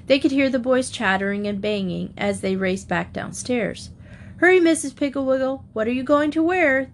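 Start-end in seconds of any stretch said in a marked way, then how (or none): 4.4-6.9 excited. Acted. Children urging eagerly.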